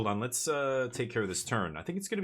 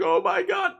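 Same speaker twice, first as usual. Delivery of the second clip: mock gushing; 8 dB louder than usual. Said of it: "People are like".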